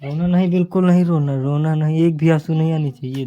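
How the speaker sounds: fake-strict big brother; mock stern comfort. Teasing crying sister, mock stern. (रोती बहन को नकली सख़्ती से चुप कराना)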